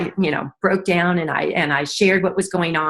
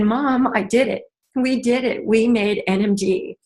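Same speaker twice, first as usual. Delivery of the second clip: raised, emotional "we did it"; emotional announcement to mom; 4 semitones higher than usual. Retold or imitated. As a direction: tell her mom, voice lifting with pride. Telling her mother in hospital.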